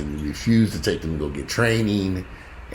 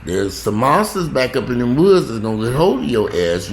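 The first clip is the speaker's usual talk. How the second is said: retold warning; 4 semitones higher than usual. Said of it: "And I kept warning her".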